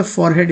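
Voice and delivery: forehead as "for-head", with the h sounded; wrong pronunciation. Shown as a demonstration. Teacher rejects this reading of the word, mistaken pronunciation. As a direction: say forehead as spelt, "for" plus "head". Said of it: "नहीं है, वो गलत है".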